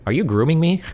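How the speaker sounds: a touch of cheery mockery; cheerful doxer voice. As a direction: toss the jab out brightly. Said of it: "the cheerful voice".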